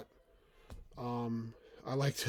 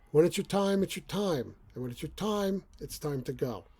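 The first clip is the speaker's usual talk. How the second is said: lightly voiced Neville, pitched higher; a hint of Neville's solemn line; Neville quote; 4 semitones higher, 3 dB louder than usual. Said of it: "As Neville says".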